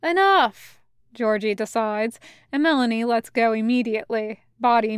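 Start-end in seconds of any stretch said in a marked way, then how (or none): 0.0-0.8 sharp, louder and higher stop; a raised voice saying enough; firm call. Acted. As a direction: cut them off firmly. Georgie stops the play fight.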